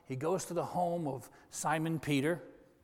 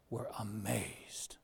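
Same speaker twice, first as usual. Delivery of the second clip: slow, soft whisper of wonder; whispered awe; 5 semitones lower, 9 dB quieter, slower than usual. Real, not acted. Preacher retelling the crowd's amazement, slow hushed whisper. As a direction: let it fall to a slow hush.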